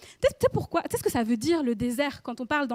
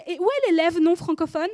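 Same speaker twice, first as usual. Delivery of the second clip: teacher calling the roll, raised voice; louder called-out question; 3 semitones higher, 5 dB louder than usual. Retold or imitated. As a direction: call across the class for l'élève non francophone.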